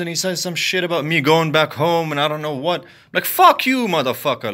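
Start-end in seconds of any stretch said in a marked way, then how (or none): 3.1-4.5 angry curse. Real, not acted. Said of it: "I'm fucking pissed".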